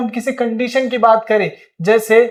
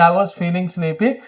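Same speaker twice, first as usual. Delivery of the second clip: slowed, softer answer; slow model sentence; 3 semitones lower, 4 dB quieter, much slower than usual. Shown as a demonstration. Teacher answering his own question for learners, slowly. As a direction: give the answer slowly and clearly. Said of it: "Come on, come on, क्या बोलेंगे?".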